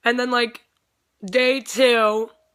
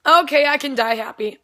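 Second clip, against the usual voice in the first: a sudden high shriek, then louder gushing; fangirl shriek; 5 semitones higher, 4 dB louder, slower than usual. Retold or imitated. A fan after meeting Andy, shrieking with joy. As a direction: scream it out, overwhelmed with joy. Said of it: "and I'm like".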